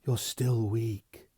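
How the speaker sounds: slow, gentle and tender. Acted. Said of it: "Olivia Prestane said gently".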